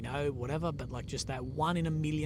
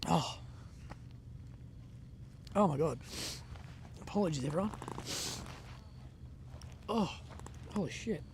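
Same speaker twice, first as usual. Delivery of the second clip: real shock; 4 semitones higher, 5 dB quieter than usual. Real, not acted. Blast nearby, shocked exclamations.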